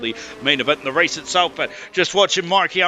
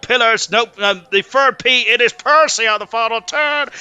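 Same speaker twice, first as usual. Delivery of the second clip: excited; 6 semitones higher, 5 dB louder than usual. Real, not acted. Commentator calls the final turn.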